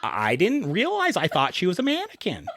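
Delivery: hammed-up true-crime narrator, giggling; true crime podcast voice. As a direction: play the stunned podcast witness. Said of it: "What is this voice you're doing?".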